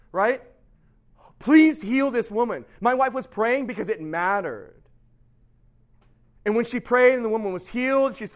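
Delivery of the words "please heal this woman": loud, slow, raised pleading; earnest plea. Retold or imitated. Wife prays for a deaf woman, pleading. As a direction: pray like it truly matters.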